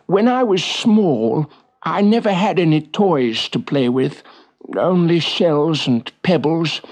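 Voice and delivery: slow, wistful walrus voice. Acted. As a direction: reminisce as a gentle walrus. Walrus remembers his childhood.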